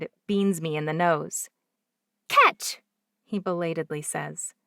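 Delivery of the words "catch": put-on high, loud child's call; a little boy yelling catch; playful shout. A narrator's reading. Boy throws ball at guest.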